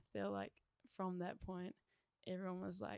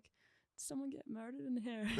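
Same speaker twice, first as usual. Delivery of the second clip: higher-pitched, mildly incredulous retold question; mock alarm; 5 semitones higher than usual. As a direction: imitate a startled bystander, pitched up. Team member reacting to bathroom screaming.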